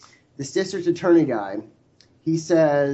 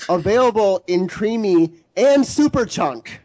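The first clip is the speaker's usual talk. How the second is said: chipper 1950s ad; 5 semitones higher, 5 dB louder than usual. Acted. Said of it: "I'm not finished".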